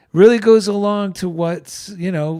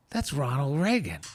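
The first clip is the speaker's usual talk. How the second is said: hushed recognition; 3 semitones lower, 8 dB quieter than usual. Retold or imitated. Recognizing Reagan on the bike path.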